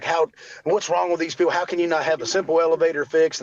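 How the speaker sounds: mildly indignant griping, retold; mild retold anger. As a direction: replay an exasperated complaint, a touch heated. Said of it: "I was mad".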